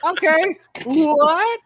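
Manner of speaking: high, loud confused "what"; baffled. Retold or imitated. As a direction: play it totally bewildered. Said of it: "poor Bailey's like".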